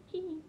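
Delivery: small, high, soft giggle; playful hee hee. Real, not acted. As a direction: squeak out a quiet little hee hee. Playful giggle between remarks.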